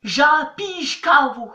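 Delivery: Japijkavu read out slowly, letter by letter, the wrong way; slow spelling-pronunciation of Japijkavu; as written. Shown as a demonstration. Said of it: "on dit pas du tout comme ça".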